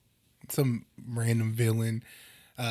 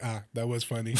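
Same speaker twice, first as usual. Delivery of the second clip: mock Black Panther; 2 semitones lower, 5 dB quieter than usual. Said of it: "Black Panther was like".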